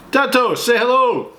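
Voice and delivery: high calling voice. Real, not acted. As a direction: call over to them. Calling to someone off screen.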